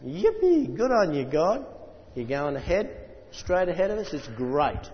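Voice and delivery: high yippee easing into chatty delight; excited cheering. Acted. Preacher voicing the excited army to God, excited cheer. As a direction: open high and gleeful, then settle. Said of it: "They were very excited about this".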